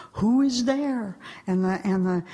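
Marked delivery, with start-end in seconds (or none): 0.1-1.2 mysterious divine voice. Acted. Returning voice questions the meditator, slow solemn challenge. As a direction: ask slowly, as the returning voice. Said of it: "the voice comes back".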